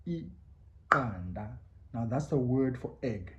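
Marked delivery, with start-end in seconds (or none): 0.1-1.6 Iqanda said very slowly with a click on q; isiXhosa click. Shown as a demonstration. Teacher modelling Iqanda slowly, click pronounced. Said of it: "part of my breakfast was iqanda".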